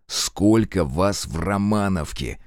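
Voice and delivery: through gritted teeth. Acted. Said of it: "скрипнув зубами".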